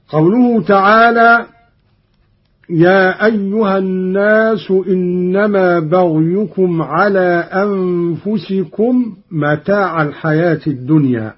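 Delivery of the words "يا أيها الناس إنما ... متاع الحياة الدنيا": Quran recitation. Acted. Teacher reciting the verse for students, measured chant.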